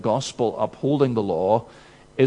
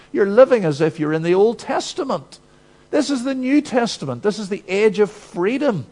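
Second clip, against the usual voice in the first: dismissive Christian; 4 semitones higher than usual. Retold or imitated. Preacher mimicking Christians who dismiss the law, in a breezy mocking voice. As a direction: brush off the law like a smug critic. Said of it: "the view expressed by some Christians".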